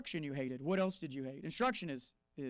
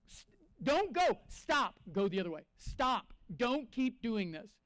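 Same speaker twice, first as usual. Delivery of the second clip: raised, pleading stop; a friend urgently warning; 2 semitones higher, slower than usual. Retold or imitated. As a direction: call them back from danger. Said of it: "they tell you".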